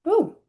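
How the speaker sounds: high cracking ooh as the voice breaks. Real, not acted. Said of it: "I am losing my voice a little bit".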